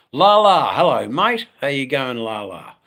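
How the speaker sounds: sudden high, loud hello; cheery call-out to Lala; excited greeting. Real, not acted. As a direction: brighten up as a friend pops in. Greeting a viewer in chat.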